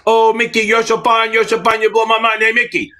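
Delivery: high, loud, bouncy cheerleader chant; hammed-up cheerleader praise; mock cheerleader. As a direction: cheer him on like a pep squad. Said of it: "I'm a fucking cheerleader".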